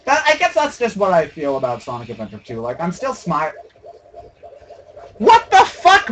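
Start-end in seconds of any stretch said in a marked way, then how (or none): 5.2-6.1 startled outburst. Real, not acted. Game glitch surprise.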